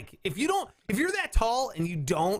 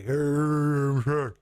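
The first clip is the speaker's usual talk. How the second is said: slow, lower and louder giant; slow-motion Shaq voice; 4 semitones lower, 5 dB louder, much slower than usual. Retold or imitated. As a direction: stretch every word, deep and slow. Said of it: "you talk like you're in slow motion".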